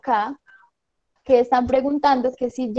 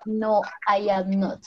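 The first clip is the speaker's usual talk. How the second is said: slow model answer; 2 semitones lower, slower than usual. Shown as a demonstration. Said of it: "si no estás feliz vas a decir".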